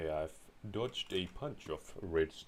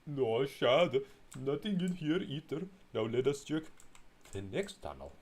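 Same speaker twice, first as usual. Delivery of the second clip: high, louder mock whine; playful high character voice; high put-on voice; 8 semitones higher, 4 dB louder than usual. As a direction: squeak it as a comic sidekick.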